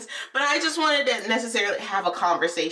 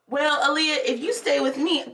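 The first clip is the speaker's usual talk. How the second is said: higher-pitched bargaining voice; coaxing teacher; 5 semitones higher than usual. Retold or imitated. Teacher bribes a pupil to stay, coaxing. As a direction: imitate a teacher tempting a child.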